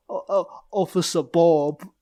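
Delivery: Scottish officer stumbling on his name; very Scottish accent. Acted. Police officer giving his name, Scottish accent. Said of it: "in a very Scottish accent".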